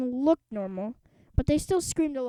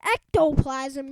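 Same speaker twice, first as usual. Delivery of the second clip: slow scared cry; 2 semitones higher, 6 dB louder, slower than usual. Acted. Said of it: "cried Bug".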